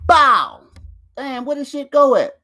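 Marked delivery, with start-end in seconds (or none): 0.1-0.6 loud short bow effect; loud playful sound effect; mock bow sound. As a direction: punch out bow bow.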